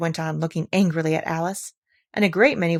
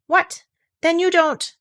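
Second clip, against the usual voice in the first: surprised squeak; 10 semitones higher, 5 dB louder, slower than usual. Acted. Insect surprised.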